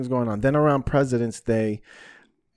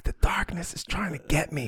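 hushed, higher-pitched eerie whisper; spooky whisper; 5 semitones higher, 4 dB quieter than usual. Retold or imitated. Filming himself watching the dark close in, spooky whisper. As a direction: whisper it like a secret fear into a recorder. Retelling his spooked phone recording.

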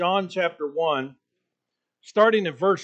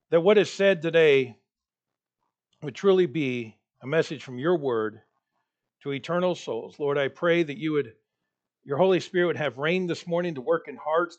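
earnest prayer, slightly lowered voice; 3 semitones lower than usual. Real, not acted. Preacher asking God for wisdom this morning, prayerful. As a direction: pray aloud for the congregation, softening toward the amen.

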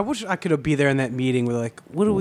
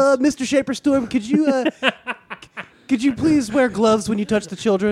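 put-on kid voice; 6 semitones higher than usual. Kid talking to shop teacher.

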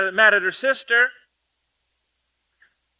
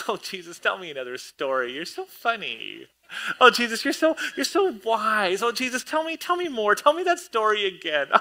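lightly mocking, doting gushes, rising higher; swooning Mary; 4 semitones higher than usual. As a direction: gush at Jesus like a starstruck fan. Preacher mocks Mary adoring Jesus.

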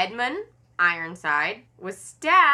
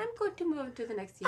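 high-pitched Viking voice; 6 semitones higher, 7 dB quieter, faster than usual. Pretend.

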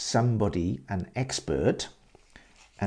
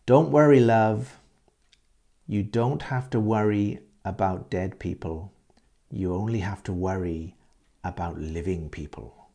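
put-on old lady reassuring. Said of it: "That's how they talk".

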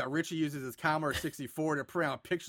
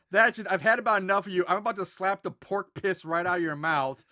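angry hillbilly threat; 2 semitones higher, 3 dB louder than usual. Retold or imitated. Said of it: "Bert responds saying".

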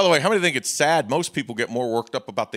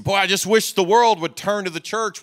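raised, louder wistful quote; imitating a churchgoer's wish; 8 semitones higher, 6 dB louder than usual. Preacher voicing a hopeful churchgoer, mock wistful and raised. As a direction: voice a hopeful member, pitched up. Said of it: "We say".

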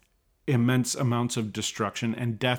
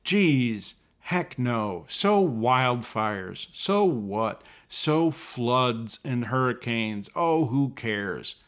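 Rick Allen; slower than usual. Retold or imitated. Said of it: "Congressman Rick Allen is saying".

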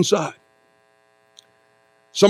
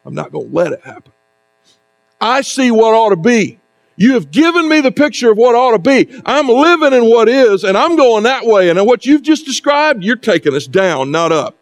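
Peter's self-justification; 4 semitones higher than usual. Retold or imitated. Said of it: "That was his rationale".

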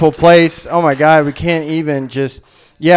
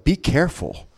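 hushed warning; 8 dB quieter than usual. Retold or imitated. Coworkers warning about a trip to Jackson, hushed. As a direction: warn them softly, imitating a worried coworker.

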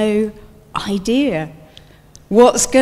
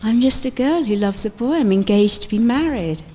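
pleading line. Pretend. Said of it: "I imagine Mary saying this line".

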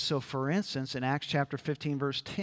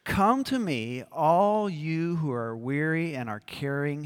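scripture reading. Shown as a demonstration. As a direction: proclaim the text to the hall. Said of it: "Let's read it together".

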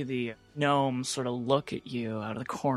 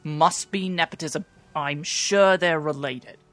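lightly voiced grumbling halfling; a hint of an indignant crew gossip; 2 semitones higher than usual. Game master voices the gossiping halfling.

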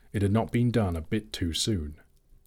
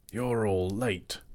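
grumbling; slower than usual. Acted. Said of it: "he grumbled".

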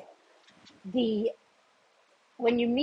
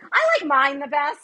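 laughing boast; 7 semitones higher, 7 dB louder than usual. Retold or imitated. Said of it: "I'm like".

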